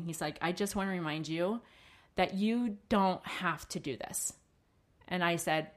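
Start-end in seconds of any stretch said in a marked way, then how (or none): 0.4-4.3 kind and loving. Retold or imitated. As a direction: ease her down like a loving husband. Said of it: "he was so kind and so loving".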